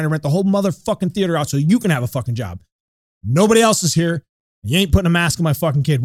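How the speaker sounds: emphatic, indignant retold confrontation; mildly heated telling-off; retold angry rant. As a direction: replay laying into the theater manager, punching the swear words. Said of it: "I am fucking pissed".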